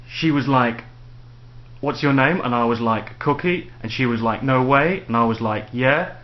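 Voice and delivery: imitated uptalk, each reply such as "Cookie" and "Yeah" lifted like a question; mock upward inflection. Shown as a demonstration. Mocking how like replaces said, with questioning rises through to "Yeah". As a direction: parody chatty retelling with questioning rises up to "Yeah". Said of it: "where everything sounds like a question".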